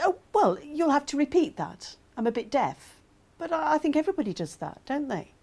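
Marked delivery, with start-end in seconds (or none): 0.0-3.0 lightly brushing it off, starting high; casual, higher-pitched request; making light. Acted. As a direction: make light of it, pitch easing down. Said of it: "make light of it".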